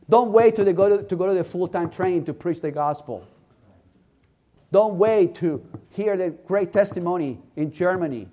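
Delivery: exhorting preacher, pitch climbing as it goes; impassioned sermon delivery; fervent preaching. Real, not acted. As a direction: urge the congregation on. Exhorts the congregation.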